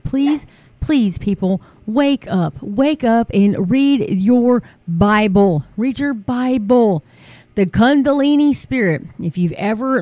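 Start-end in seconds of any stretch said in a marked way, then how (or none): 0.0-7.0 slow, urgent plea to the flock; slow, drawn-out pleading sermon voice; pleading preacher. Real, not acted. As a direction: beg them to wake up. Pleading with viewers to wake.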